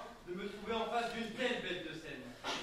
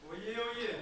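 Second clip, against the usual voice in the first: town crier; 3 semitones higher, 5 dB louder than usual. Acted. Opening a contest speech like a herald.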